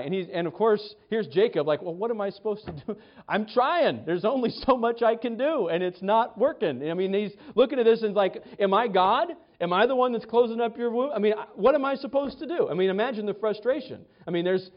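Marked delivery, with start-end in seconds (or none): 1.8-6.9 higher, quick, exasperated protest; husband answering his wife, higher and exasperated; frustrated husband. Retold or imitated. Jacob voiced, frustrated husband. 8.6-12.7 high, rising exasperation, speeding up at the end; husband protesting to his wife, higher and faster; exasperated husband. Retold or imitated. Jacob voiced, frustrated husband.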